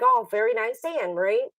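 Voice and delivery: high-pitched, sweetly polite congratulation; retold politeness. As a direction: act out being very polite, pitch lifted. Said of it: "I was very polite about it".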